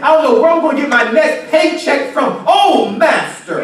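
desperate plea. Acted. Acting a desperate believer's prayer.

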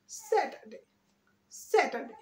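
quick স্যাটারডে as "SAT-a-day", falling tune; স্যাটারডে with the middle r silent; smart pronunciation. Shown as a demonstration. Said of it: "উজো রেখেছি".

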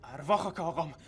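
vengeful threat. Acted. Man swears revenge.

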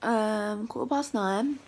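just-woke-up croaky voice; rusty unused voice after sleep; morning voice. Real, not acted. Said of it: "I sound so morning-y".

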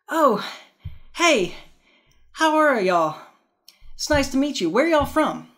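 put-on high, loud, sugary Southern belle accent. Host acting the Southern belle greeting strangers in a high, loud Southern accent. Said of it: "the Southern belle says".

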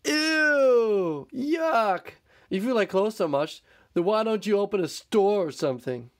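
high, snide "ew, yuck"; sarcastic mole rats. Acted. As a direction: sneer it sarcastically. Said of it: "they said".

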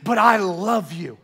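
slow, hammed-up love declaration; Jerry Maguire. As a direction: imitate a drawn-out movie confession. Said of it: "and he goes".

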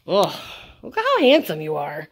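loud doting praise; gushing pet talk. Real, not acted. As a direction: gush to a dog about his good looks. Cooing praise at the dog.

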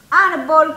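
árbol said loudly as a joke among numbers; mock counting mistake. Shown as a demonstration. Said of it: "usted estuviera contando uno". (error en broma: árbol)

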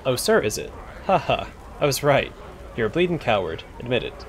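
a lightly voiced rough cockney thug taunting; cockney bully. Bully jeering at the adventurer, light rough cockney voice. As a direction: sneer it like a street tough.

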